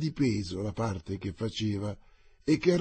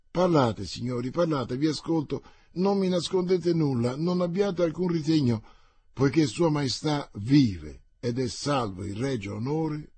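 eager plea; 4 semitones higher, 4 dB louder than usual. Acted. La regina supplica di parlare.

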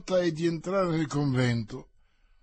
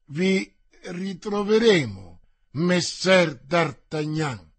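calling out louder after him; raised voice; 4 dB louder, slower than usual. Acted. Brigade captain calls after D'Artagnan, louder raised voice. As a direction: raise your voice to reach him. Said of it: "continuò alzando la voce".

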